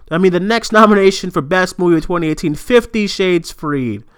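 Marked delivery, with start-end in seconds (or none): 2.5-4.0 slow disbelief. Real, not acted. Disbelieving nomination reading.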